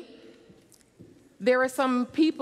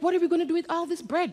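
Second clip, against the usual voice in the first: flustered amazement; 6 semitones higher, much faster than usual. Acted. Ladies amazed at bread.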